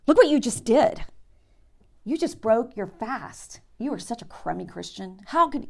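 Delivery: high, loud mock scold; hammed-up tempter turned accuser; accusing devil. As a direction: sneer like the devil catching you.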